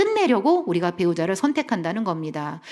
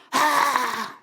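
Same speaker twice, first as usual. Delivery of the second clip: higher acted-out cry of panic; mock crazed scream; 4 semitones higher than usual. Wife with anxiety surging again, mock crazed scream. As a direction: imitate an outburst of anxiety. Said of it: "약간 미친 여자가 돼요".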